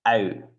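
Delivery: ou starting open, closing to rounded lips; trumpet-lipped vowel. Shown as a demonstration. Teacher repeating the trick, ou opened then closed. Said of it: "open it and then close it like a trumpet".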